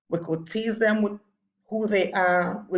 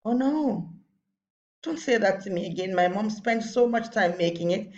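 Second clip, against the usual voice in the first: a light imitation of a hurt child; hurt friend protesting; 2 semitones higher than usual. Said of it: "And your friend says".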